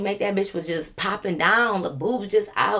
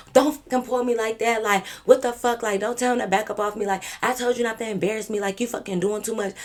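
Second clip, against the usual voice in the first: higher mock angry tirade; imitating pissed friend; 4 semitones higher than usual. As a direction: act out a drunk friend lashing out. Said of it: "she pissed".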